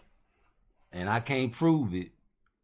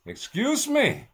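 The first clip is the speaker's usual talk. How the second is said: much higher, much louder, slow and stretched; comic shout; 9 dB louder, slower than usual. Pretend. He repeats himself in a mock outraged shout. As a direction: blast it out like an outraged squeal. Polite aside, then shouted retake.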